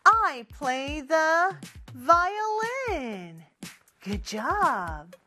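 slow drill over music; each line said twice slowly for repeating; call-and-repeat drill. Shown as a demonstration.

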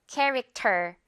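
캐릭터 with a crisp, aspirated T in 터; 캐릭터 with a textbook airy 터; over-clear T. Shown as a demonstration. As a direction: pronounce the T of 캐릭터 too clearly, with air. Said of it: "명확하게 T처럼 발음하기보다는요".

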